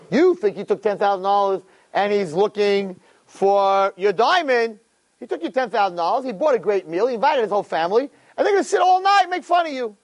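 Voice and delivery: high and quick, rising to a shrill yell; mocking accuser building to a shout. Accuser mocking the Jew's feast to the king, climbing into a high shout. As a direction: whip up the king until you shout.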